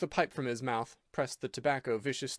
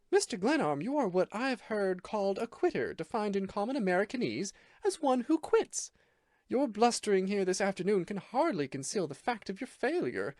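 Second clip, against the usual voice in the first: higher female voice, cold and scornful; cold disdain; 8 semitones higher than usual. A narrator's reading. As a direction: lay out his failure with icy contempt. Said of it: "cold indifference to the most severe disdain".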